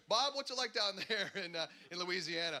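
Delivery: lightly voiced anchor calling to a reporter; a hint of a cheery studio anchor; mock news anchor. Anchor calling out to reporter on the beach, lightly voiced.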